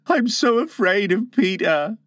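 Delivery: high voice, mildly fearful; shaking fear. Acted. Tootles confesses fear of Peter, mildly shaking.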